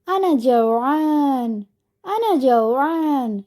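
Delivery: slow, drawn-out chick's complaint; lightly voiced hungry chick, stretching each word; hungry baby bird. Baby bird telling of its hunger, lightly voiced and drawn out. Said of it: "അങ്ങനെ ഒരു പക്ഷിക്കുഞ്ഞ് പറയുകയാണ്".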